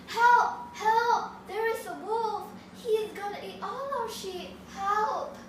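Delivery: high, loud panicked cries for help; shouting for help. Acted. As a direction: yell for the villagers from the hilltop. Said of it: "started shouting".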